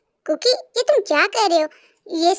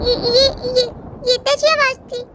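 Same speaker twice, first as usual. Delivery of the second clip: higher, stammering startled voice; frightened child; 4 semitones higher than usual. Acted. Kookie alone hears a strange sound, scared.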